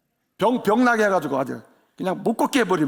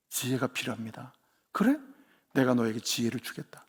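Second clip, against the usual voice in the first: hushed dream dialogue; 10 semitones lower, 8 dB quieter than usual. Acted. Dream dialogue, soft low.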